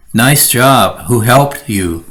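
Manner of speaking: dry backhanded praise; sarcastic. Shown as a demonstration. Coworker praising backhandedly, sarcastic. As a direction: praise with a sneer. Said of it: "you're just being very sarcastic".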